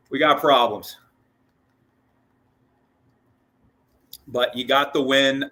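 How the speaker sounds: slightly winded, short of breath. Real, not acted. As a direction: talk while a bit out of breath. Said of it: "I'm running out of breath".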